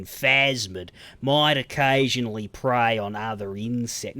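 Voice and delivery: put-on slow, over-careful Australian accent; over-focused Australian accent. Mocking an actor focused on his accent, laboured Australian. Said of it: "say the words in the right accent".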